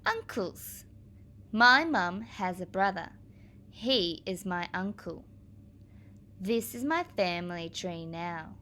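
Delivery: clear, deliberate picture-book read-aloud; reading to children. Acted. Teacher reading a family book to her class, clear and deliberate. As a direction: read each page out for the little ones.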